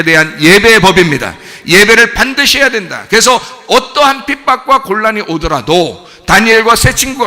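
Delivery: loud, driven pulpit voice; forceful preaching. Real, not acted. Preacher urging the congregation to put God's law first, forceful preaching. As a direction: preach it with full conviction to the congregation.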